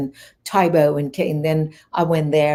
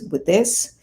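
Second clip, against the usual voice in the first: scornful dismissal; 3 semitones higher, 3 dB louder than usual. Retold or imitated. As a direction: retell his rejection emphatically, pitched up. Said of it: "he went like this, looking, showing me, and goes".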